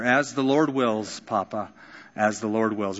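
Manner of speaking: soft, gentle answer. Retold or imitated. Dying daughter answering her father, soft and gentle. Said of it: "she would always answer".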